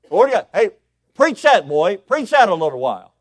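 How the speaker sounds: high, booming hollering; dad egging preacher on. Retold or imitated. Dad interrupting his son's preaching, excited shouting. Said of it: "he'd interrupt my preaching".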